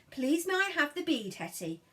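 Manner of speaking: lightly voiced polite request; coaxing demo. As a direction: show him the words, gently. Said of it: "all you have to do is say".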